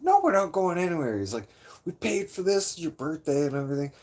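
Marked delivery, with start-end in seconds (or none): 0.0-1.2 higher, louder retold refusal; stubborn drunk friend, pitched up; mock defiant protest. Friend refusing to leave bar. 1.8-3.9 high, quick retelling of the excuse; indignant drunk buddy, pitched up and rushed; mock indignant insistence. Friend arguing they paid.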